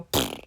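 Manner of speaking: airy, sputtering "poof"; imitated poof. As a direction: puff it out like hair springing up. Imitates hair puffing up.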